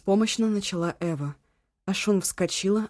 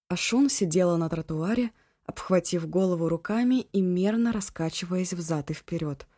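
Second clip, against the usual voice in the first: ordinary delivery, nothing marked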